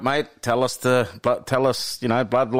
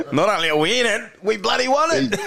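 higher-pitched, rising celebration; elated; 7 semitones higher than usual. Real, not acted. Congratulating the pigeon race winners on air, elated. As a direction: crow about the win, voice climbing.

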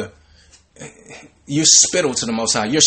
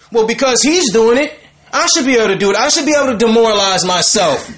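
high-pitched imitation of a complainer; raised-voice mock self-justification; mock indignant protest; 7 semitones higher, 4 dB louder than usual. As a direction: argue it like someone demanding equal rights, hammed up. Mimicking women justifying promiscuity.

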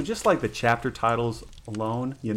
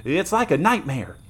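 put-on a touch of a stricken young guardsman; anguished soldier; 5 semitones higher than usual. Wounded soldier lamenting his queen's treachery, anguished. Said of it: "like one still stunned by some monstrous".

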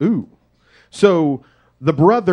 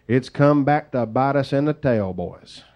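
country saying; 2 semitones lower than usual. Shown as a demonstration. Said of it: "as we would say in the country".

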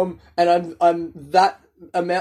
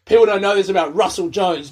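louder, weighty gossip reveal; dramatic reveal; 6 dB louder than usual. Shown as a demonstration. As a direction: announce it like juicy scandal. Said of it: "talking about them in a way that's".

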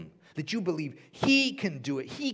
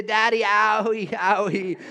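put-on whiny toddler; 7 semitones higher, 8 dB louder, slower than usual. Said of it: "she'll say".

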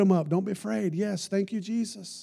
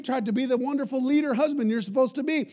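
higher, sneering accuser's voice; mock them like the devil would; devil's taunt; 7 semitones higher than usual. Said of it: "Doesn't that sound like the devil".

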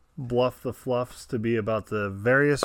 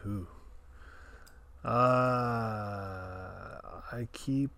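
whispering; 3 semitones lower, 13 dB quieter than usual. Real, not acted. Musing to himself before guessing.

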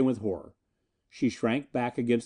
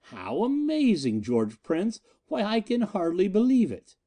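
grinning mockery; 8 semitones higher than usual. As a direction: relish the discovery cruelly. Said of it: "peering, grinning".

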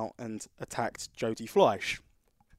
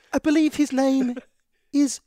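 much higher and louder, slow drawn-out announcement; mock ring announcer; 14 semitones higher, 9 dB louder, slower than usual. MC on the microphone names the wrestler, grand announcement. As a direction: announce the name grandly, stretching it.

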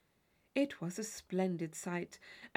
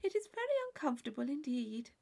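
serene; 5 semitones higher, faster than usual. Acted. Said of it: "with perfect serenity".

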